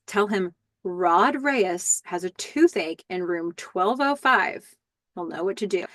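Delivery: lightly imitating a measured, careful caller; clearly enunciated. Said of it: "Rod enunciates every word very clearly".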